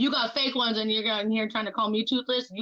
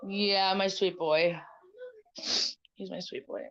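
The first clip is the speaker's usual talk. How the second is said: tender cooing; slower than usual. Real, not acted. Mother cooing to her son.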